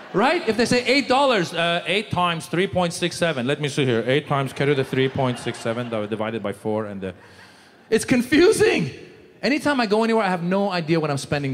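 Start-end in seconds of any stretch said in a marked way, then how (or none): 4.1-7.1 muttering math. Pretend. Mumbled mock mental arithmetic.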